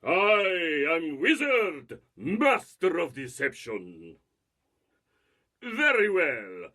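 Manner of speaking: Russian-tinged menacing wizard; Rasputin-inspired villain. Acted. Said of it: "My inspiration for, for this was Rasputin".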